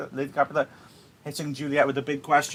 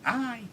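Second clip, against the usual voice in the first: put-on baby noise; 11 semitones higher than usual. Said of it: "she's just making a baby noise".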